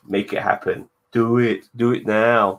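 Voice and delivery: loud, pushy egging on; hyped rallying demand; urging command. Real, not acted. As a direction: push him to just do it, loudly. Egging a friend on loudly.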